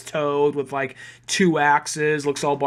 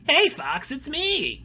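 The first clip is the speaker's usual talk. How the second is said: lightly higher mock cool greeting; mildly deepened take; deeper Slippy voice; 10 semitones higher, much slower than usual. Later Slippy greeting Fox, lightly deeper voice. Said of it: "to being kinda like".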